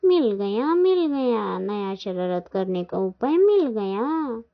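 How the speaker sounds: drawn-out, lilting eureka with swooping pitch; gleeful announcement. Acted. Jaggu hits on new mischief, gleeful sing-song. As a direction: crow it like a child with a naughty plan.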